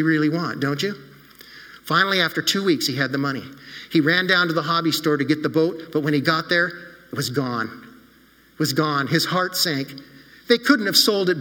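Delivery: put-on gently paced storytelling for children; story narration. A narrator's reading. Pastor telling the children a story, warm storytelling. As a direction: read it like a bedtime story to kids.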